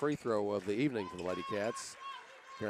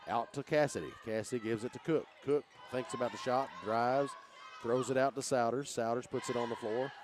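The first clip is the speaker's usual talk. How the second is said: excited play-by-play. Real, not acted. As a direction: build the call as the scramble heats up. Fast play-by-play, rising excitement.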